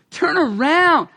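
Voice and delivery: slow gentle turn around; compassionate. Shown as a demonstration. Preacher showing repent as compassionate, slow and gentle. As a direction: say turn around slowly and tenderly. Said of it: "It's a compassionate word".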